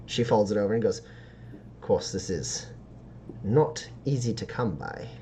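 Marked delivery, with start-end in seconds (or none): 1.0-5.1 halting sales pitch with long pauses; sly dealer's pitch. Acted. Dealer pricing rare stardust for a customer, lightly voiced sly pitch. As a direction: draw out the pitch before naming the price.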